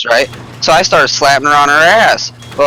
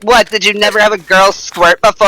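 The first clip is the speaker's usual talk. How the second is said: higher, incredulous imitation of the girl; mock girl's retort; 7 semitones higher than usual. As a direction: do her, pitched up, surprised he never knew. Voices the girl's reply.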